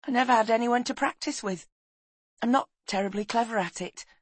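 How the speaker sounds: high-voiced, self-effacing boy; shy boy. Boy admits he's no talker, shy.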